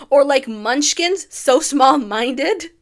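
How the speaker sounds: loud, slow, laughing line; giggling, drawn-out delivery. Real, not acted. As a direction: laugh through the words. Laughing at the lyric.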